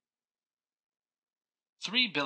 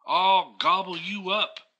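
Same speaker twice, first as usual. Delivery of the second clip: loud, higher growling troll threat; mean troll voice; 9 semitones higher, 7 dB louder than usual. Acted. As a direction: bellow it like a big mean troll. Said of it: "cried the troll".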